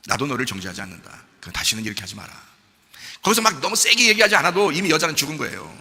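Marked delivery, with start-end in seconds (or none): 0.1-2.3 soft, low-pitched words of pardon; quiet, lowered voice of mercy; not forceful. Acted. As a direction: speak gently as Jesus forgiving. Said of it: "세게 얘기한 것 같진 않아요".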